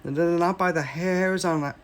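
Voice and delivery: trembling. Acted. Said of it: "trembled Boris".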